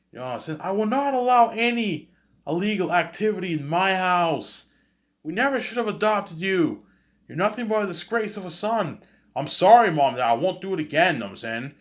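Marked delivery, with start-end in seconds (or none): 0.6-11.1 very high, loud mocking parent voice; shrill scolding parent. Parents disowning adopted son, high shrill scolding. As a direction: scold the son like an outraged mother.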